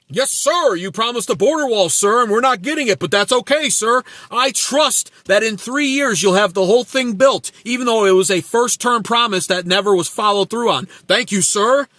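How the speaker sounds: a fawning supporter thanking Trump; mocking loyal follower. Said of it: "T D S is".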